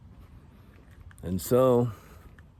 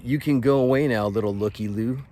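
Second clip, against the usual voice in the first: loud, raised brush-off, easing at the end; retold angry dismissal; 3 semitones higher, 6 dB louder than usual. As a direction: send him away with a raised voice. Retold dismissal in gym confrontation.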